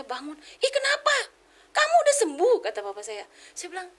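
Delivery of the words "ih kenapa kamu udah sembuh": imitating a shocked father, high and loud; startled father. Papa startled awake by recovered child, startled exclamation. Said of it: "Papa saya kaget kan".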